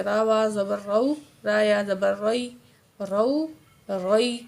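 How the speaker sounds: "را" with a heavy, full-mouthed r; thick ra. Shown as a demonstration. Teacher drills ra with zabar, "را" said thick. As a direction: round out "رو، روئی" as a thick r. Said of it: "را کو ہم موٹا کر کے پڑھیں گے".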